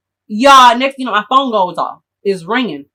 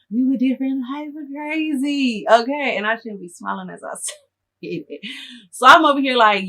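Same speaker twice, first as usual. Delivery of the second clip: usual speaking voice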